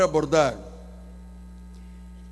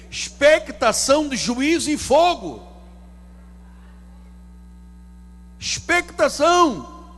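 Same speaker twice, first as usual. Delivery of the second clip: slow, raised, weighty Expectação; preacher's heavy stress on Expectação; drawn-out emphasis; 5 semitones higher, 4 dB louder, slower than usual. Shown as a demonstration. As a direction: lean hard on Expectação de juízo e fogo.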